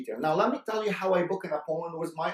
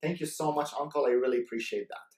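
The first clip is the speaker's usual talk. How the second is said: respectful to uncle. Shown as a demonstration. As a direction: thank the uncle warmly for his time. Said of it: "did you see the tonality".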